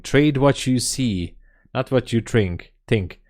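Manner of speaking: slow, weighty proverb voice; solemn maxim. Shown as a demonstration. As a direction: intone it like wise old advice. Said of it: "evergreen sayings in trading".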